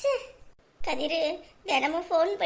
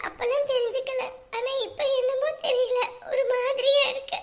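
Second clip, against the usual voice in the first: tearful; 4 semitones higher than usual. Acted. Wife tearful as husband leaves.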